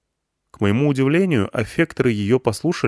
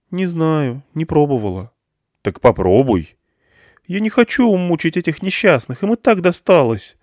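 put-on higher girl's voice, balking; young girl Irina, reluctant; 7 semitones higher, 3 dB louder than usual. Irina refusing to hurt the crowd, higher reluctant girl's voice.

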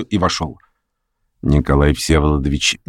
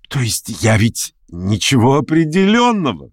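higher, quick eager busybody; fussy chatterer; 5 semitones higher than usual. Acted. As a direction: chatter on, pleased with himself. Pyotr Stepanovich voiced. (суетливый болтун, высоко)

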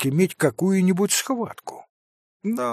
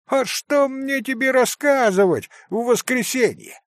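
put-on higher, indignant scolding of the boy; shouting scold; 10 semitones higher, 3 dB louder than usual. A narrator's reading. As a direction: scold the rascal at full voice, higher. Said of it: "раскричалась Марья". (раскричалась, выше и с возмущением)

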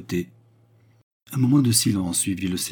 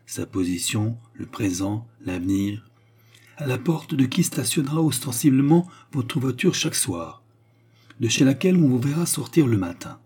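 lightly voiced woman, measured then rising; deliberate Baccarat; 3 semitones higher than usual. Baccarat offers the count a choice, deliberate. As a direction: spell out the bargain with care.

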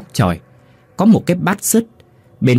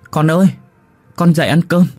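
higher, eager call to wake them; calling the children; 6 semitones higher than usual. A narrator's reading. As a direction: wake the kids with joyful news of rice. Mother waking hungry children. (giọng mẹ gọi con dậy ăn cơm, cao và mừng rỡ)

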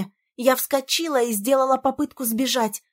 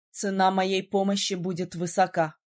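lower, grave male voice; lowered prince voice; 5 semitones lower than usual. A narrator's reading. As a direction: state the price solemnly. (низкий серьёзный голос принца)

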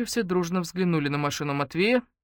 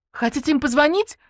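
cheeky; 11 semitones higher, 7 dB louder than usual. Acted. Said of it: "кашлянула Ленка".

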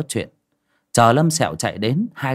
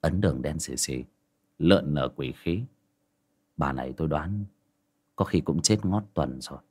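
low, soft, offhand explanation; flat, offhand reply; 6 semitones lower, 7 dB quieter than usual. Acted. Young master answering the old men, low and offhand. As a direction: tell them of the ghost as if it were nothing. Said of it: "cậu nhàn nhạt đáp".

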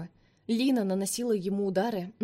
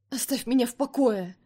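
higher, louder angry outburst; shouting out; 4 semitones higher, 4 dB louder than usual. Acted. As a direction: fling it at him, raised and loud. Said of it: "выкрикнула она".

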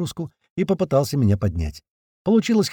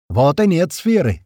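higher, louder, slow triumphant shout; 5 semitones higher, 4 dB louder, slower than usual. A narrator's reading. Sliva shouting after the blast. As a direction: yell it out through pain and anger. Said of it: "кричит Слива".

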